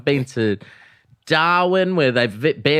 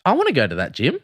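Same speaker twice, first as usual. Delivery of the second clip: excited disbelief. Real, not acted. Amazed at a gym owned by players.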